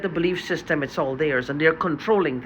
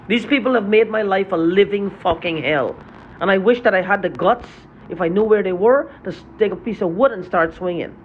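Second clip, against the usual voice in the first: angry. Real, not acted. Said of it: "Sorry I'm so angry".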